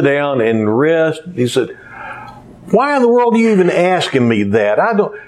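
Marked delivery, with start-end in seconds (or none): 2.7-5.1 snapping, higher and faster; a tired father snapping at his son; irritated dad. Retold or imitated. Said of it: "just jumped all over him".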